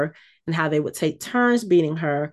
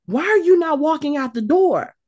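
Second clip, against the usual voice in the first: exasperated high plea to the screen; pleading at the screen; 8 semitones higher than usual. Retold or imitated. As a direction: beg the character to chase her. Yelling at the TV scene.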